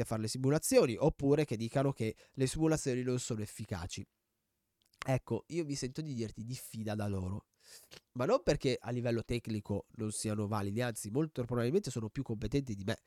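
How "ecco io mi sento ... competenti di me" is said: stuffy nose voice; talking through a stuffed-up nose; blocked nose. Real, not acted. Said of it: "mamma mia quanto ho il naso tappato".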